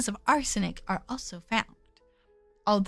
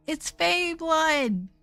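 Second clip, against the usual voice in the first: excited; 2 semitones higher, much slower than usual. Real, not acted. Excited conclusion.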